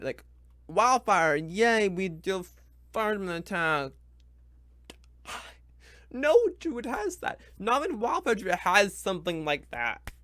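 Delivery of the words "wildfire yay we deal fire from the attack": sarcastic cheer. Real, not acted. Sarcastic cheer about the subclass.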